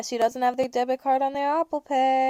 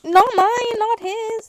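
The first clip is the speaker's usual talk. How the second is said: mock shout; 10 semitones higher, 8 dB louder, slower than usual. Comic opening shout.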